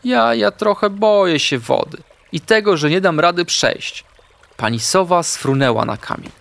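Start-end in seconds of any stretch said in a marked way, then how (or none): 0.0-4.0 high, small, frightened voice; hesitant, scared little-animal voice; timid murmur. A narrator's reading. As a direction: stammer a shy confession in a little high voice. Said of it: "Artek mruknął cichutko".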